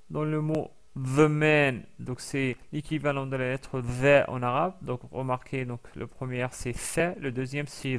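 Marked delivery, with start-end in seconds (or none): 0.9-1.8 "the man" slowly, with a voiced th; English the man. Shown as a demonstration. Teacher slowly modelling "the man" for students. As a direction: draw out "the man" with a buzzing th.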